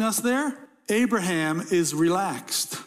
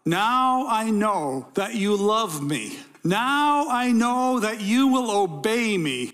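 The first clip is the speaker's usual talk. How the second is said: urgent voice of God; 2 semitones higher, slower than usual. Acted. God voiced stopping the sacrifice.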